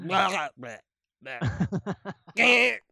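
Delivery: clipped nonsense grunts, mocking Southern speech; garbled Southern noises. Mimicking how Southern speech sounds to him, garbled grunts. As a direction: blurt mangled syllables as if words were cut down. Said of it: "that's what it sounds like".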